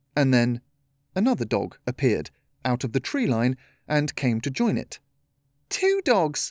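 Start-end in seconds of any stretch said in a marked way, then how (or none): 5.7-6.6 very high, ringing shout. Seeing a second dog join the first on the beach, shouting. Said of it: "Shouted Kara".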